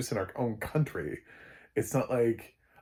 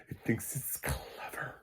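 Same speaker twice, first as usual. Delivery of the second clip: slow, hushed mock-confiding whisper; 4 semitones higher, 8 dB quieter, slower than usual. Real, not acted. Reviewer sneering at the film's twists, mocking whisper. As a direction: whisper it slowly, soft and scornful.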